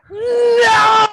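loud, high, explosive "No!"; sharp shout. Retold or imitated. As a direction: bark it like a horrified boss. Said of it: "'cause she was really upset".

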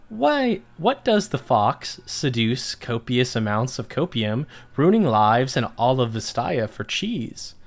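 lightly theatrical story narrator. A narrator's reading. Podcast host reads listeners' nonsense story, narrator voice. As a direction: read nonsense as an earnest tale. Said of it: "get my narrator voice ready".

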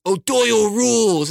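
high, cheering movie-bully voice; put-on dude's cheer; eighties bully. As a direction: crow it like a cocky eighties bully. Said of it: "some guy that's an eighties bully".

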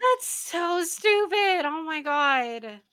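slow, drawn-out disbelief; exasperated. Real, not acted. Friend reacting to the story, slow exasperation. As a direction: stretch it out in disbelief.

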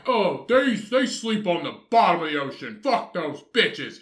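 playful put-on voice mocking bygone tastes; mock old-timer voice. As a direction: ham up the dismissive old-timers sneering at lobsters. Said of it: "They're like".

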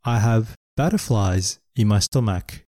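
slow, clear phrase for learners; slow model phrase. Shown as a demonstration. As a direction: say it slowly for students to copy. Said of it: "例えば". (ゆっくりお手本の発音)

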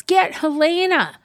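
high, loud retold command; imitated yell. Host retelling the queen's odd order, imitated yell. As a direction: call it out urgently, imitating her. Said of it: "she yells".

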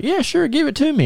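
high, offhand mom voice; breezy mom. Retold or imitated. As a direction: toss it off like a busy mother. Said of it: "she's like".

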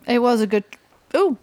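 a hiccup breaks the line. Real, not acted. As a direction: cut off by a hiccup. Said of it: "I hiccuped".

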